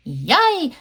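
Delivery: high, swooping storybook yay; happy cheer. Acted. Pink fish gets a new house, happy cheer. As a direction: cheer lightly as a little fish. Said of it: "the pink fish says".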